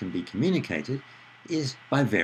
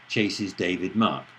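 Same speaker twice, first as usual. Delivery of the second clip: slow and deliberate, word by word; slow demo phrase; 3 semitones lower, slower than usual. Shown as a demonstration. Lecturer contrasts an awkward sentence, slowly. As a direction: spell out the odd order slowly. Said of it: "a bit easier to understand than".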